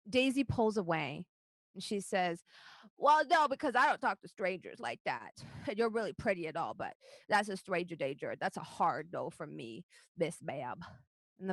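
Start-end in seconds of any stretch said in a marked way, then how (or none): 3.0-10.8 a hint of indignant little girl; goblin child refusing. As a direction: refuse a stranger like a cheeky kid.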